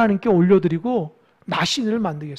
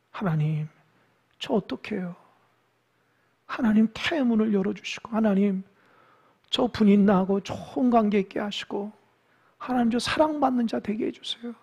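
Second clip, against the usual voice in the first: softer, pleading prayer; tearful prayer, lightly voiced; 7 dB quieter than usual. Hannah begging God in prayer, softly pleading.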